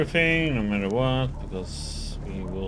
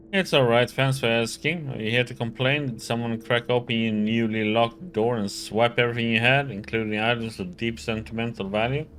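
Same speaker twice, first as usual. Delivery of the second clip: loud, irritated nasal locksmith; annoyed nasally voice; 2 semitones higher, 5 dB louder than usual. Acted. Voices locksmith character Ryoka.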